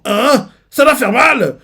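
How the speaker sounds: high, loud alarmed cry; startled shout. Retold or imitated. Sailors see him tear off his horns and shout in alarm. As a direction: yelp in shock. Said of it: "ils font".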